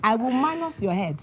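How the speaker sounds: scolding Nigerian mom. Retold or imitated. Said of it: "impression of your mom or auntie".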